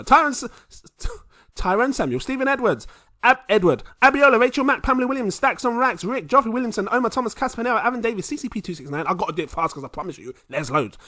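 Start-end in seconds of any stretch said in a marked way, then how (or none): 0.0-9.0 high, loud hype announcer reading names; shout-out roll call. Real, not acted. Host thanking patrons on a long list, hyped roll call. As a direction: belt out each name like a roll call.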